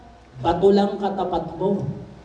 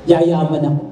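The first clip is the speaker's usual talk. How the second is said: declaring; 4 semitones lower, 3 dB louder than usual. Shown as a demonstration. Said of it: "Kaya sabihin mo".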